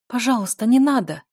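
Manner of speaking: frightened begging cry; pleading. A narrator's reading. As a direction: beg him desperately. Daughter begs him to stop.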